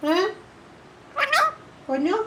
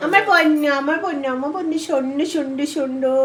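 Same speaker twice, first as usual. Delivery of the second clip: pet-directed cooing; 2 semitones higher than usual. Real, not acted. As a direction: coo soothingly to a sulky pet bird. Cooing to soothe an angry pet.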